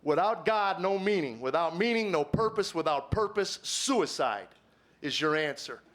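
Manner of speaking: measured phrases, a pause before "suicide"; emphatic repeat. Shown as a demonstration. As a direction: drive home "no meaning", "no purpose", then pause around "suicide". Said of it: "Get that again, folks".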